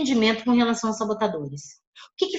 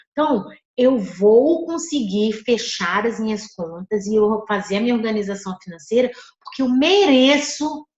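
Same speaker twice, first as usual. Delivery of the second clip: firm, determined affirmation with weight on each claim; tone of power. Shown as a demonstration. Coach showing students how to voice their affirmation, with power. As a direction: say it like you already own it. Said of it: "eu tô com uma entonação de poder".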